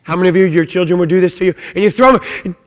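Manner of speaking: ordinary talk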